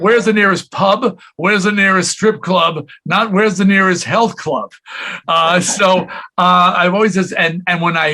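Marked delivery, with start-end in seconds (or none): 0.0-4.7 imitating a British manager, raised pitch, mild English accent; a light English accent, higher than his own; playful hint of an English accent. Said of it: "with his English accent".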